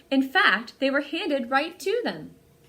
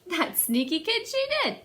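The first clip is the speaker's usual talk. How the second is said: put-on higher, teasing sneaky kid; playful mock scold; 8 semitones higher than usual. Reader teasing about sneaky Mary, playful. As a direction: tease like sharing a secret.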